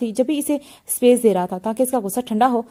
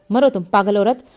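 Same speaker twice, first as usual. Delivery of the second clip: hammed-up exasperation at a friend; mock angry; 2 semitones lower than usual. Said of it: "अमल ने गुस्से से". (हल्का सा नकली गुस्सा)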